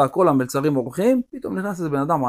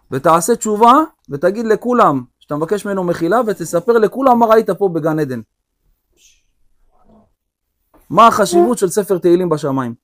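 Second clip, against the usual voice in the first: commanding king; 4 semitones higher, 4 dB louder than usual. Acted. King David commands the rich man.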